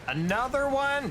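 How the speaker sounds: drawn-out high disbelief; surprised. Real, not acted. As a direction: stretch it out, high and amazed. New alert, third today.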